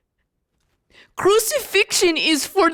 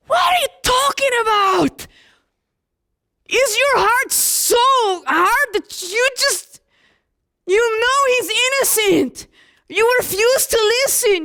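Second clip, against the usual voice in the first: raised, higher pleading anger, opening with a shout; angry outcry; 5 semitones higher than usual. Acted. John confronting the crowd that chose Barabbas, angry and raised. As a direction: rail at the crowd's hard hearts.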